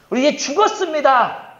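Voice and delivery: high, loud exclamation of doom; acted despairing cry. Ten scouts reporting to the people, acted loud despair.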